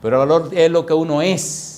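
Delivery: sermon voice that swells, then settles; emphatic preaching. Real, not acted. Preacher telling believers their worth, emphatic preaching. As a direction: declare it slowly to the congregation.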